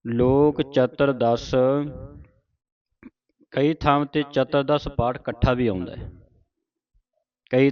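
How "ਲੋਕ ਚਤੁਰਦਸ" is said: slow, measured teaching recitation; scripture recitation. Shown as a demonstration. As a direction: draw each word out for students to follow. Reads scripture for students to follow.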